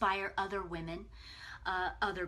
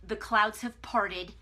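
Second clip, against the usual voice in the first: joyful relief; 6 dB louder, slower than usual. Retold or imitated. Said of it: "Then I'm like".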